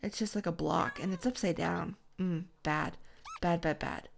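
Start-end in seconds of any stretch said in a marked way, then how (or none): 2.2-4.1 talking with mouth full. Real, not acted. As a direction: speak around a mouthful. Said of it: "do you have something in your mouth".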